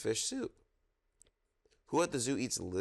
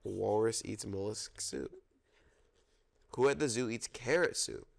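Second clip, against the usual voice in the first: storytime reading. Acted. Reads zoo picture book aloud.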